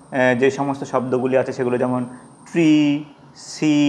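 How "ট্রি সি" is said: "ট্রি, সি" with the ই held long; prolonged final vowel. Shown as a demonstration. Teacher shows students long ই at word ends, prolonged. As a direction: stretch the ই at the end of ট্রি and সি. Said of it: "এগুলো কিন্তু prolonged হচ্ছে".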